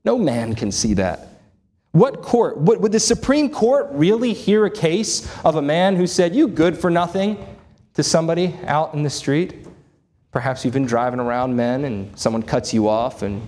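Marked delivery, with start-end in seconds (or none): 1.9-9.7 higher-pitched rhetorical disbelief; incredulous. Real, not acted. Preacher scoffing at an absurd Supreme Court case, incredulous. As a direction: ask it as if the very idea is absurd.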